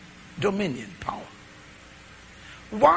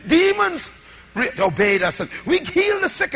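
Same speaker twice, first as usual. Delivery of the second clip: mock-thrilled report, rising in pitch and volume; bursting with excitement, shouting; excited disciples; 2 semitones higher than usual. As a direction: act out the giddy disciples rushing back. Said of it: "they were so excited".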